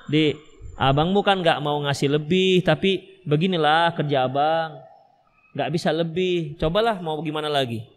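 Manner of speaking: suami membujuk dengan pelan dan rendah; suami memberi pengertian. Acted. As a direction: jelaskan dengan sabar, suara turun dan melambat. Suami memberi pemahaman kepada istri. (suami membujuk istri dengan lembut)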